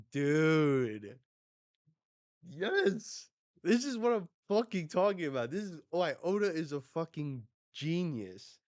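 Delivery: high-pitched, hyped gushing; real excitement. Real, not acted. Fan praising Oda's genius, really excited. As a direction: gush like a thrilled fan.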